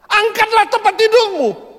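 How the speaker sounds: high, slow, forceful order; divine command. Acted. The Lord ordering a bedridden man, high forceful command. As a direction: proclaim each word as a command. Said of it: "Ini perintah yang tidak masuk di akal".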